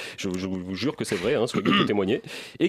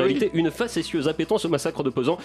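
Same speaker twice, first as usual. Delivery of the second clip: grand theatrical declaiming, raised pitch; hammy stage actor; 6 semitones higher than usual. Acted. Theatrical farewell chronicle, raised pitch.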